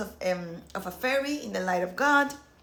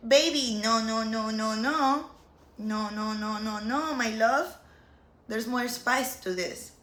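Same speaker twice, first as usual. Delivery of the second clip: drawn-out, sing-song string of no's; playful divine correction; 2 semitones higher than usual. Retold or imitated. The divine corrects her pathway thinking, playfully chiding. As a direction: gently scold with long, gliding no's, hammed-up.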